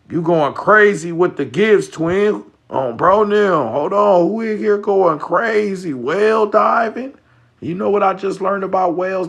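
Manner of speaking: hyped shouting. Real, not acted. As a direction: yell over the gifts with real excitement. Hyped reaction to stream gifts.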